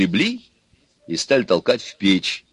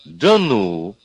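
mildly amazed exclamation; pleasant surprise. A narrator's reading. Daughter hears Ivan is roasting, pleasantly surprised. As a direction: let delighted disbelief show a little. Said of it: "приятно изумилась дочка".

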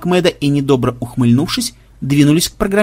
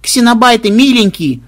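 high excited squeal; squealing girls; 8 semitones higher, 5 dB louder than usual. Acted. Granddaughters squealing at the xenobytes in chorus, high and excited. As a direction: squeal it out like delighted little girls. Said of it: "хором заверещали внучки".

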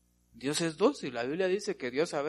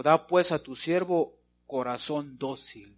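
slow scripture reading; 5 dB louder, slower than usual. Shown as a demonstration. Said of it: "Reina Valera mil ochocientos sesenta y cinco".

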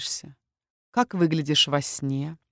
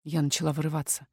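usual speaking voice

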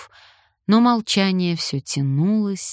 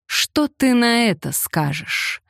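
slow, higher mocking question; 7 semitones higher than usual. A narrator's reading. He taunts Francesca after confessing his love, mocking. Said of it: "насмешливо сказал он".

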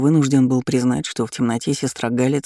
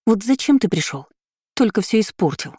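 seething anger; 8 semitones higher than usual. A narrator's reading. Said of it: "процедила она сквозь зубы".

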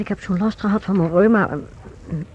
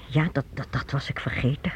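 much softer and lower, trailing off sheepishly; embarrassed murmur; 7 semitones lower, 9 dB quieter than usual. Acted. Mother to her son, admitting she forgot, sheepish murmur. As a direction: shrink away as if caught out.

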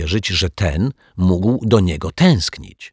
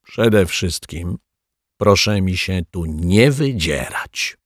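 calm; slower than usual. Acted. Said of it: "powiedział spokojnie".

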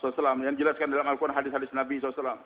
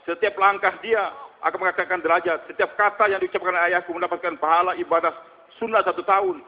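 retold child's proud declaration, building louder; steadfast child; 3 dB louder than usual. Karkun's child answers teasing friends about his father, steadfast. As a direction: voice a child standing firm, gaining force. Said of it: "itu anak tegar, dia nggak nangis".

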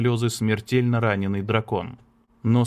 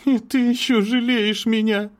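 through gritted teeth; 12 semitones higher, 3 dB louder than usual. Acted. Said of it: "пробормотала она сквозь зубы".

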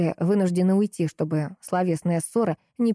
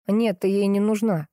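curt cut-off. Acted. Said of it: "отрезал Максим".

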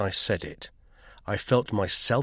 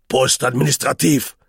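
gruff voice; 3 semitones higher, 7 dB louder than usual. A narrator's reading. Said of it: "said a gruff voice".

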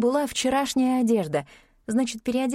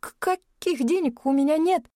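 frightened stammer; 6 semitones higher than usual. A narrator's reading.

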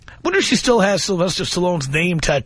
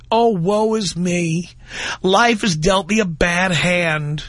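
whining twelve-stepper. Retold or imitated. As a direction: drag it out like a sorry drunk. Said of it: "the whining of these twelve-steppers".

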